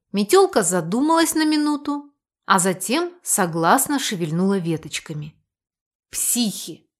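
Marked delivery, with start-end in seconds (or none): 6.1-6.9 grumbled. A narrator's reading. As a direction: grumble it under your breath. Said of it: "буркнул Лавир".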